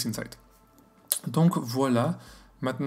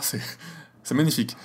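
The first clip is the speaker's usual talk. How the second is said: quick, laughing admiration; laughing delight; faster than usual. Real, not acted. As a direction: laugh through it, thrilled by the result. Delighted by the sharp star. (émerveillé en riant)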